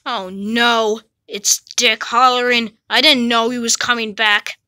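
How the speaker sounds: low menacing villain. Acted.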